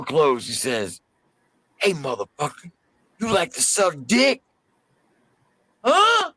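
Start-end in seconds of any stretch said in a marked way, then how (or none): 1.8-6.3 much higher, mocking threat rising to a yelp; menacing taunt. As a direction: lean in and taunt him. Inmate finally threatens private.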